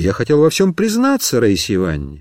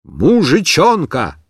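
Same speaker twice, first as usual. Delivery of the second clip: declaiming; slower than usual. Acted. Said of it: "продекламировал".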